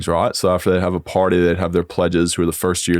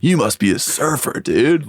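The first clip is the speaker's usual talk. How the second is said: higher, put-on surfer-dude gush; hammed-up amazement, pitched up; imitating impressed Americans; 6 semitones higher, slower than usual. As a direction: mimic a wowed American fan. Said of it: "So people are like".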